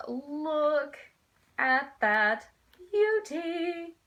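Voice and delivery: rising to high, loud delight; excited, emphatic gushing; gushing admiration. Real, not acted. Showing off a loved book cover.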